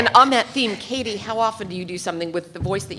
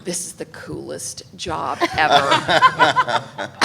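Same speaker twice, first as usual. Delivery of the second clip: slow, laughing through the words; delighted laugh; 2 semitones lower, 6 dB louder, much slower than usual. Retold or imitated. Remembering the casting session, slow and laughing. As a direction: savour it while laughing. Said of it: "And I thought".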